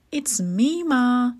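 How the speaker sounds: small, high storybook voice; tiny Tom calling. A narrator's reading. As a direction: call up to be noticed. Tiny Tom calls up to mother.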